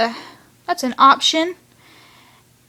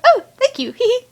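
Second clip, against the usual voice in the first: giddy thanks; 11 semitones higher than usual. Retold or imitated. Chase thanking the ramen guy.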